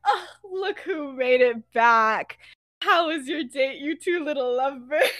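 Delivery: gleefully taunting; teasing. Acted. Teasing a friend about his date.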